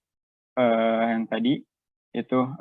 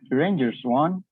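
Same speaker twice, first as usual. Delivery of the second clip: "The Rangers won" asked with a rising tone; questioning lilt ending upward on "won"; rising question intonation; 3 semitones higher than usual. Shown as a demonstration. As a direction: turn the statement into a question, lifting to a rise on "won". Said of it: "spoken with a rising tone".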